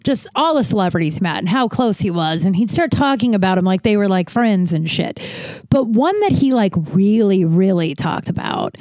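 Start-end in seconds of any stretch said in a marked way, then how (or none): 5.7-8.8 breathless, gasping between words; running out of air mid-sentence; out of breath. Real, not acted. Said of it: "I just got out of breath".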